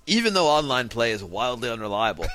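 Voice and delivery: lightly put-on authoritative reading voice; Jonathan Metz. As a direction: read it out with mock authority, starting low. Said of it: "I love your Jonathan Metz voice".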